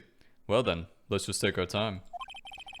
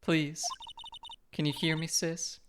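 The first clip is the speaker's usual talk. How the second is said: put-on higher, pleading young girl voice; 9 semitones higher, slower than usual. Maya calls out to her sister Mia, high pleading girl voice. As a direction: call out for a missing sister, pleading.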